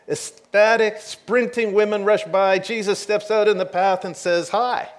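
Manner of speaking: excited build to a playful hi. Real, not acted. Jesus greets the rushing women.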